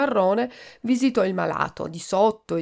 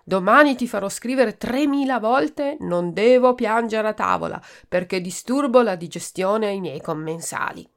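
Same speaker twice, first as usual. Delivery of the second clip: loud, stern threat, pitched higher; threatening; 4 semitones higher, 5 dB louder than usual. Acted. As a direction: scold the crying boy, menacing. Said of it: "minacciava don Prezzemolo". (minaccioso e forte)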